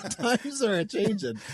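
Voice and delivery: high, drawn-out Midwestern mom; June. Acted. Mom character commenting on the times, high and slow. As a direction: remark like an old-school Midwestern mom, amused. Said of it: "That's what she would say".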